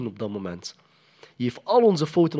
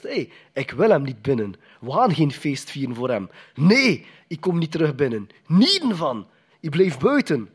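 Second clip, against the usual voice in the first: raised, stubborn refusal; indignant older brother; 2 semitones higher, 4 dB louder than usual. Retold or imitated. Older son refusing to join the feast, indignant and raised. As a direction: play the sulking brother who won't come in. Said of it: "Die oudste zoon zegt van".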